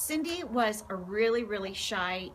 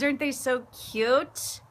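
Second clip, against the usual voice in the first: cooing; 4 semitones higher, 4 dB louder than usual. Real, not acted.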